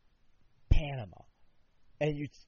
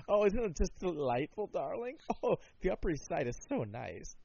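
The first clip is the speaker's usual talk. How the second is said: lightly put-on society parent, gushing; mock Upper East Side snob; 4 semitones higher than usual. Snobbish parent praising the Upper East Side, mock gushing. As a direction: gush like a pampered Upper East Sider.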